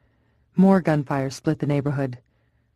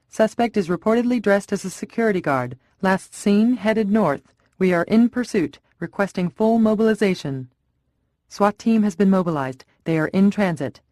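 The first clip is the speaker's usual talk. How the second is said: raised, tense voice calling in a pursuit; tense officer in pursuit, somewhat raised; urgent radio report; 4 semitones higher than usual. Acted.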